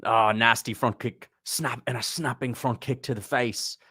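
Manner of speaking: lightly imitated English commentator accent; Dan Hardy. Streamer mimicking a fight commentator's call, light English accent. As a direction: call the strike in a slightly put-on English accent. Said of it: "That was a Dan Hardy accent".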